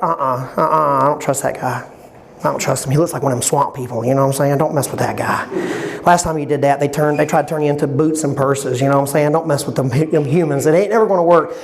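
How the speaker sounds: put-on tut-tut like a wary girlfriend; gossiping girlfriend. Girlfriends in the restroom warning their friend, sassy and hushed.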